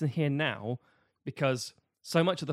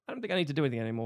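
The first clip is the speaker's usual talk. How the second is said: lazy Maleficent; much faster than usual. Retold or imitated. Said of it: "she's like".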